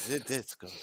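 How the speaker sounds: light, badly done French accent; mock French accent. Co-host admitting poor accents, mock French accent. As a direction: toss out "ze Discord" Frenchly. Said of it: "Not very good at doing accents".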